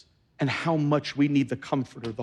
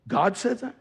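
laughing disbelief; 4 semitones higher than usual. Retold or imitated. Pastor reacts to the story.

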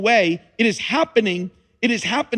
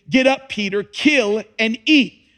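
voice of God; 3 semitones higher, 4 dB louder than usual. Acted. Voice from heaven commands Peter.

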